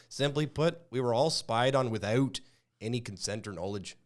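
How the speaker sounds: hammed-up Canadian accent, eh. Podcast host reading the news in a mock Canadian accent. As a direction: play a mock Canadian patriot ranting in a Canadian accent. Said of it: "that was a pretty good Canadian accent".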